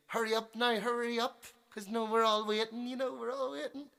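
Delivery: high, loud mock nagging; impatient nagging. Lady tells musician everyone is waiting, high impatient nagging. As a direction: imitate a pushy punter, pitch climbing as she goes on.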